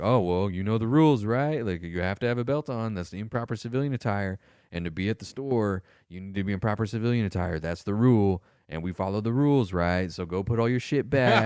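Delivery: lightly voiced stern sergeant; mock sergeant lecture. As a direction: lecture him on the rules like a smug NCO. Sergeant lecturing about belt rule.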